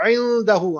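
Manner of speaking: इंदहू opened with a throaty ain. Shown as a demonstration. Teacher stresses the ain in इंदहू. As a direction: begin इंदहू from the throat, not a glottal stop. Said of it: "आइन पढ़नी है".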